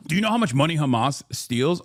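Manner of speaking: a touch of mock incredulity; mocking quote. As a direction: parrot the silly question back. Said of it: "It's also hilarious to f-, say".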